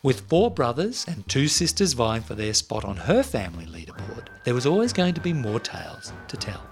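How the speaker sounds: measured storytelling read over music; story narration. A narrator's reading. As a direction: read it like a podcast intro. Scripted intro read over music.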